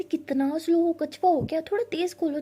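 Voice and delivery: teasing tortoise jab; impatient teasing. Acted. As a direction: hurry her up mockingly.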